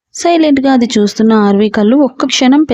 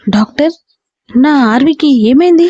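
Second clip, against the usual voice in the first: a touch of worried urgency, slightly raised; anxious; 3 semitones higher than usual. Acted. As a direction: ask the doctor with mild alarm. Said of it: "కంగారుగా వచ్చి అడిగాడు".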